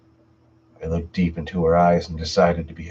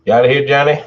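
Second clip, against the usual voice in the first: cheery farewell; 8 semitones higher, 9 dB louder, faster than usual. Real, not acted. Host greets departing viewer.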